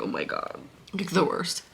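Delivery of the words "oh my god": breathless whispered gasp; whispered oh my God. Retold or imitated. Reacting to the ending, whispered shock. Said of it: "you're like".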